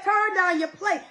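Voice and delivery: Esther's bold order, belted out; commanding shout. Retold or imitated. Preacher voicing Esther as she orders the fast, commanding shout. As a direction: call it out like a queen's decree. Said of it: "She said".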